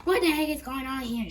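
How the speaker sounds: loud angry shout. Acted. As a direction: yell it at them. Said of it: "shouted Miss Brain".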